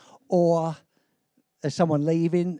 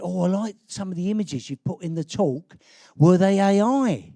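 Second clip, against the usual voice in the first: imitating youngsters; 3 dB louder than usual. Youngsters asking the speaker about his images, imitated. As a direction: play a curious youngster, stretching the final question. Voicing youngsters who approached him.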